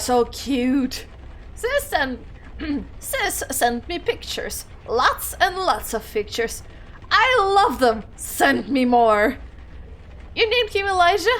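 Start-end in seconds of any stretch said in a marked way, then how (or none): 1.5-6.6 lightly voiced old woman; a hint of an elderly lady. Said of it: "Julie Beckett". 7.1-8.0 excited. Acted. Excited old lady. 8.2-9.4 lightly voiced old woman; a hint of an elderly lady. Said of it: "Julie Beckett". 10.3-11.3 surprised. Acted. Surprised old lady.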